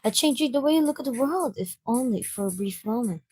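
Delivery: lightly voiced thoughtful, reserved girl; soft-spoken Yuri. Yuri explains what real horror does, softly earnest. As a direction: speak gently as a quiet horror fan.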